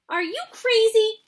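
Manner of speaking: high, loud shout. A narrator's reading. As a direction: shout it at the man. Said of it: "shouted a woman".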